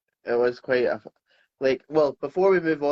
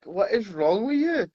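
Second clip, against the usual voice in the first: mock exasperated question, pitched up; baffled disbelief; 6 semitones higher than usual. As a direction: ask it in mild bewilderment. Retells own baffled reaction.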